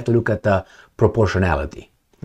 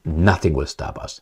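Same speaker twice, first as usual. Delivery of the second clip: quiet repeat; 7 semitones lower, 7 dB quieter than usual. Retold or imitated. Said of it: "That means".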